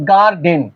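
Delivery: গার্ডেন split into two beats, gar and den; syllable by syllable. Shown as a demonstration. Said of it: "এখানে syllable আছে কয়টা".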